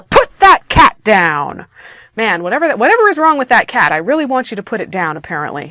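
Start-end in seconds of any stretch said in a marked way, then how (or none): 0.0-1.7 slow, loud, emphatic command; a little bit exploding. Shown as a demonstration. Teacher demonstrating an exclaimed command, exploding. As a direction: punch out each word as an order. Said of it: "as if you're just a little bit exploding".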